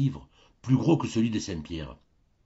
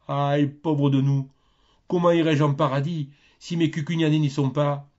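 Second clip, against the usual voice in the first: lamentation du curé; 6 semitones higher, 4 dB louder than usual. Acted.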